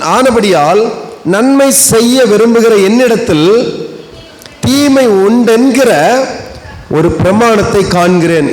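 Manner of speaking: slow, solemn Bible reading; scripture reading. Acted. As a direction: read each word of the verse deliberately. Reads Romans verse. (மெதுவான, பக்தியான வேத வாசிப்பு)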